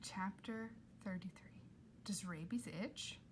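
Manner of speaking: unvoiced whisper of the chapter title; whispered heading. Reader whispering the chapter title to listeners. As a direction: breathe the heading out.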